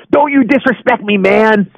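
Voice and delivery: mild mock threat from a street tough; lightly voiced gangbanger. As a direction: gangbanger warning the rude man at the bus stop, lightly imitated. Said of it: "This was a gangbanger".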